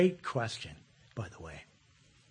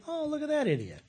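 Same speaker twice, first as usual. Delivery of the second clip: mock scornful thought; 12 semitones higher, 5 dB quieter than usual. Retold judgmental inner thought.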